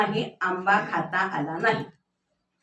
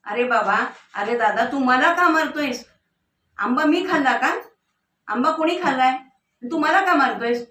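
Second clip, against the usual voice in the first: mock shout; 3 semitones higher than usual. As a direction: cry out in protest as the beaten back. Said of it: "शेवटी पाठ ओरडली".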